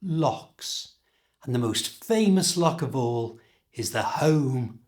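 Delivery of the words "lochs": Lochs said exactly like locks; Lochs, just the word locks. Shown as a demonstration. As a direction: Lochs rhymes with locks, plain k. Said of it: "pronounced the same as a lock".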